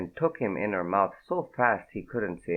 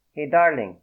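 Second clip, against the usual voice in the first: lightly voiced cowboy greeting, higher and louder; 6 semitones higher, 6 dB louder than usual. A narrator's reading. Gangster greeting the girl in bed, light cowboy voice. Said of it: "he said, like a cowboy".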